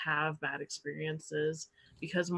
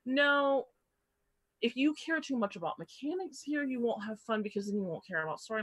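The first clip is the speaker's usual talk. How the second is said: lecturing; 5 semitones higher than usual. Retold or imitated. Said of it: "older players ... are like".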